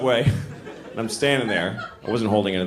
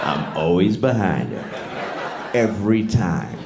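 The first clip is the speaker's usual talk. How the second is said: mock brag; 3 semitones lower, much slower than usual. Mock bragging voice.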